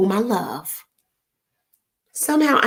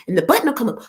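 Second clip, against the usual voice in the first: exasperated instructions. Retold or imitated. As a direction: coach a stubborn dad through it. Instructing daddy over phone.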